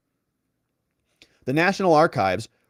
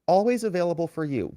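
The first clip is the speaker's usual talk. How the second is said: sarcastic, higher sing-song "Always available for you."; a lightly voiced, mocking echo of the reply; mocking fawning assistant; 4 semitones higher than usual. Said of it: "Give me a break".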